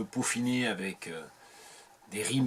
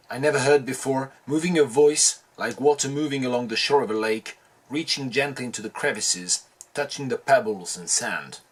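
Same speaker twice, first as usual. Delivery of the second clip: louder, projected poetry recital; poem reading; 5 dB louder than usual. Acted. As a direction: read the poem out with emphasis. Reads the poem aloud.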